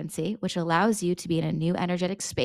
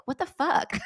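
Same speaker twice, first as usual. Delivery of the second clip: laughing disbelief; 7 semitones higher than usual. Shown as a demonstration. Reacting to unwanted advice.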